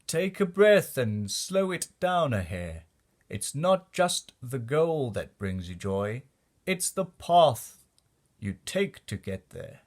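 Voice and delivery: lightly voiced dad, slowing down on the path; a hint of a patient father guiding his child; gentle fatherly advice, drawn out in the middle; dad's calm advice. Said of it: "That's when Dad said".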